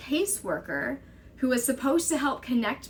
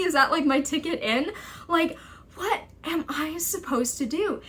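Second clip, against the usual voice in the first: higher, incredulous rising pleas; exasperated pleading; 5 semitones higher than usual. Retold or imitated. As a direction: argue in disbelief. Arguing against mental hospital threat.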